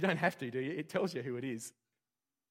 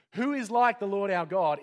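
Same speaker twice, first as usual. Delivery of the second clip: proclaiming psalm; 5 semitones higher, 9 dB louder than usual. Acted. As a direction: ring it out like a declaration.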